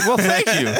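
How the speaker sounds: high announcer intercom voice. Pretend. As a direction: talk like a store intercom. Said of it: "That is my intercom voice".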